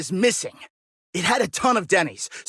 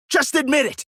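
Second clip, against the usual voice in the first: higher, demanding accusation; accusing outburst; 6 semitones higher than usual. Acted. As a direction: push him to confess.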